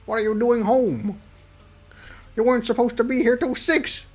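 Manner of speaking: put-on a surprised young girl caught off guard; Cookie's voice. Cookie, caught at home, surprised and flustered. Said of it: "No, this is not, that's William".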